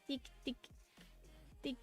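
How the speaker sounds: slow soft whisper; whispered ticking. Pretend. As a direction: whisper the ticks slowly. Slow whispered ticking while showing model.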